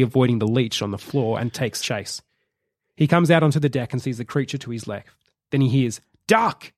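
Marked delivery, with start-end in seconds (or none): 6.3-6.7 sharp high yell of "Duck!"; shouted warning. Acted. Williams warning David to duck, sharp shout. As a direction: yell it out to warn him.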